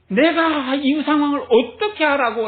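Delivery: 살짝 발끈해 되묻듯; 어쩌라는 거냐고 화난 척 따지듯; 분노한 시늉. Pretend. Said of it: "라고 하는 그런 분노였을까요". (약하게 흉내 낸 분노)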